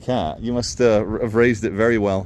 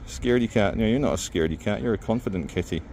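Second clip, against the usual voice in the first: soothing kitty; 5 semitones lower, 5 dB quieter than usual. Real, not acted. Soothing a nervous cat.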